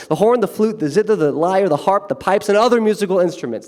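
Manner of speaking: high, eager listing of instruments; nerdy courtiers listing. Pretend. Astrologers repeating the king's list, high eager voice. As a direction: rattle off the list to impress.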